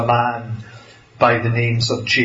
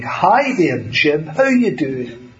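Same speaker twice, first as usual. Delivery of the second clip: mock chummy greeting; 2 semitones higher than usual. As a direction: pretend to greet the minister like an old mate. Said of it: "we were never chummy with him".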